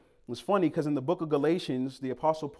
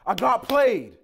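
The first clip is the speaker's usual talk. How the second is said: dismayed; 7 semitones higher, 7 dB louder, much slower than usual. Retold or imitated. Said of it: "And I'm like".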